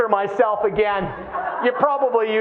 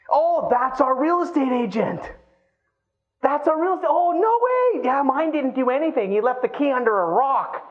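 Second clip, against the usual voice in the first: bragging homeowner; 4 semitones higher than usual. Acted.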